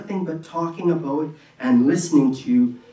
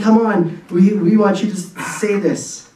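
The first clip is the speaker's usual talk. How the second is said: louder, coaxing mock crowd call; urging call; 4 semitones higher, 5 dB louder than usual. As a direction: egg him on like a jeering crowd. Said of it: "They're saying".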